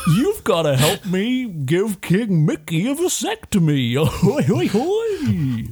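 high, swooping voice with oys dragged out. Pitching an idea where a cartoon character shows up in their game; Goofy voice. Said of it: "Goofy appears, and is like".

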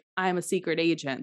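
usual speaking voice

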